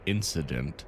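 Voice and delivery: formal corporate briefing read; measured game narration; briefing read-aloud. Acted. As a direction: read it out like an official company notice.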